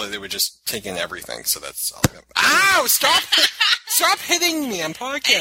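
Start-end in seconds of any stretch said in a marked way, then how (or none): 2.4-5.4 high, loud laughing yelps; laughing protest. Real, not acted. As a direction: yelp at her to stop, laughing. Being hit, protesting laughing.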